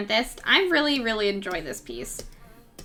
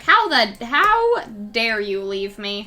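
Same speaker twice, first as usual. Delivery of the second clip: indignant cat. Retold or imitated. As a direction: play the offended cat scolding her owner. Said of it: "She was like".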